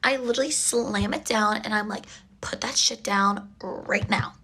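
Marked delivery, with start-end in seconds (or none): 2.4-4.3 angry hiss. Retold or imitated. Scolding date over bill.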